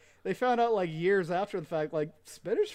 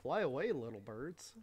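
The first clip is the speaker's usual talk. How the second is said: Rocky impression; 3 semitones lower, 6 dB quieter than usual. Shown as a demonstration. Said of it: "Let me try again".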